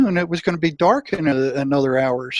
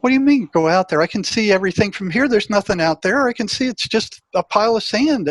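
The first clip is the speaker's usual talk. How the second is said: higher, incredulous pushback; exasperated protest; 5 semitones higher than usual. Retold or imitated. Arguing with his gut feeling about the sand island, in higher exasperated disbelief. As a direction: argue back in mock disbelief.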